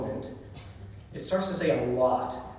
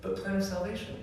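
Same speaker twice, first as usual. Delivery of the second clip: higher, teasing singsong catchphrase; mock catchphrase; 6 semitones higher, 4 dB quieter than usual. Cousins joking to each other, teasing higher singsong. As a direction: toss it off like an inside joke. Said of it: "jokes that we just said to each other".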